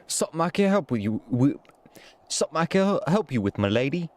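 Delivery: shaky attempt at an Irish accent while reading. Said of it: "This is such a terrible voice".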